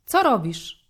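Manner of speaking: loud, eager greeting down the phone; lively loud call. A narrator's reading. Best friend calling Szymek on the phone, loud and lively. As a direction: blast it into the phone with energy. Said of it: "Ożywiony głos ... zabrzmiał tak donośnie".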